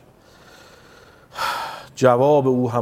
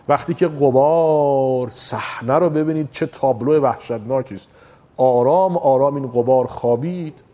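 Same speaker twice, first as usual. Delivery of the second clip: traditional mourning recitation. Acted. Preacher reciting the martyr's story to mourners, mournful chant. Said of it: "اجازه بدید به سبک مرحوم پدرم ... سخن بگم".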